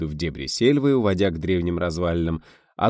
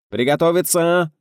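long, loud call, much higher; drawn-out shout; 10 semitones higher, 6 dB louder than usual. A narrator's reading. Director calling the whole set to get ready, drawn-out shout. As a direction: stretch the command out across the set. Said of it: "протяжно закричал Гайдай".

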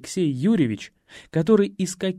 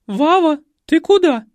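loud high commanding call; stern maternal yell; 13 semitones higher, 10 dB louder than usual. A narrator's reading. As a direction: stop him at the door. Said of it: "грозный рык маменьки".

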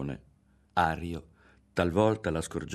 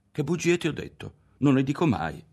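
higher and louder, taken aback; astonished protest; 8 semitones higher, 5 dB louder than usual. A narrator's reading. Ario to Lidia, astonished at being called a liar. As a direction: protest your innocence in surprise. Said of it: "si stupì".

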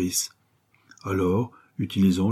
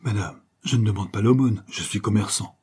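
comic dignity. Acted. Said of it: "plein de dignité comique".

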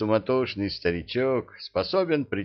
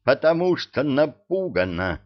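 angry; 6 semitones higher, 4 dB louder than usual. A narrator's reading. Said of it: "закипая".

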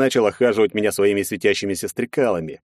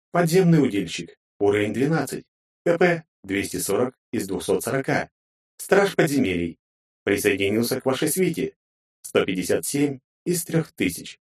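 game system voice; 2 semitones higher than usual. Acted.

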